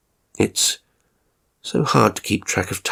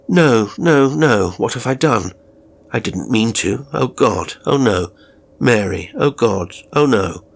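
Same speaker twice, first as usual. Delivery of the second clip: louder, anguished mock cries of no; retold shouting; 3 dB louder than usual. Carer lightly imitating Mr Robinson shouting in his sleep. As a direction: carer imitating the cries of a nightmare, fairly loud. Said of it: "You started shouting".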